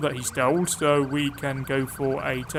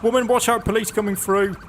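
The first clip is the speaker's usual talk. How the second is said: calling out; 5 semitones higher than usual. Acted. Calling out to a pedestrian in-game.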